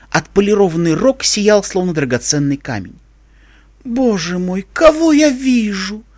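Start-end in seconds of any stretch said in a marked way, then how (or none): 3.9-6.0 slow, higher, affected society-lady voice; affected grande dame. A narrator's reading. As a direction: gush it like a pampered diva. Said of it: "жеманно произнесла Рарити".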